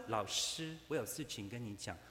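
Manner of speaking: a loud, mock-insistent claim to be gentle; mock insistence. Preacher mimics a colleague insisting he is gentle, loud. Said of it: "他说".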